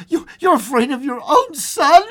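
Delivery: loud, high accusation; struggling cry. Acted. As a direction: cry out in disbelief mid-struggle. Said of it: "she cried, struggling".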